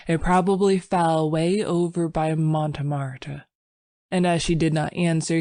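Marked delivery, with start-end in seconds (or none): 0.1-3.5 cheerful. Acted. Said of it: "he answered cheerfully".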